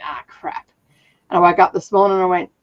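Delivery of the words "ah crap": whispered. Retold or imitated.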